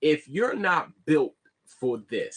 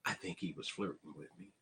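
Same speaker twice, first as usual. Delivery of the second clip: mocking whiny complainer; 13 semitones lower, 18 dB quieter than usual.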